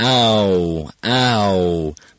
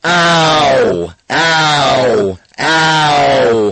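crazy shouting; 2 semitones higher, much slower than usual. Shown as a demonstration. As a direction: yell each ow. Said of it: "let's go crazy together".

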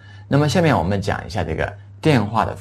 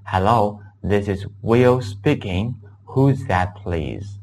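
slow model sentence; much slower than usual. Shown as a demonstration. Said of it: "我可以说".

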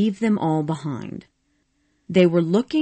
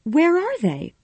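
higher, louder eager questions; crying out; 9 semitones higher, 3 dB louder than usual. A narrator's reading. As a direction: pour out the questions breathlessly. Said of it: "Scarlet cried".

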